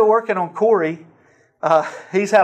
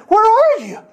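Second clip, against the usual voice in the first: put-on high, louder old man calling; a retold old man calling out, higher and louder; eager call; 5 dB louder than usual. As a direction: call out, wanting to know.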